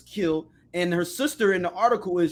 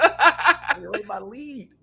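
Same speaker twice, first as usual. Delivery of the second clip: teasing mimic; 2 semitones higher, much slower than usual. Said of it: "mocking her words".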